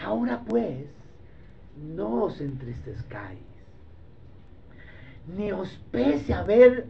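slow, weighty reading; solemn scripture reading. Acted. Preacher reading Genesis to the congregation, solemn and slow. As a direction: read the verse with gravity.

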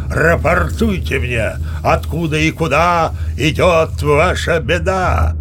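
slow, loud, booming sea-god proclamation; menacing Neptune. Acted. Captain as Neptune bellows at startled crew. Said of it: "Грозно стукнул трезубцем и зарычал".

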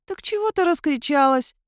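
high, odd creature voice; cat-mouse spirit asking why she shouted. A narrator's reading. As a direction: voice the little spirit.

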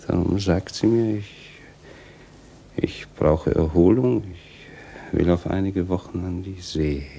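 mock her pretext angrily; bitter outburst. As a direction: throw her excuse back, loud. Bitter outburst quoting the wife.

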